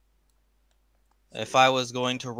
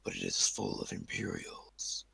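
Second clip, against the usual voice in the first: hushed, secretive whisper; 10 dB quieter than usual. Acted. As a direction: whisper the route urgently.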